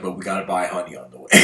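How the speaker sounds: fast and laughing through the words; can barely keep a straight face reading the bear's joke. Retold or imitated. Telling viewers the bear's joke, rushed and laughing. Bear's line in retold story.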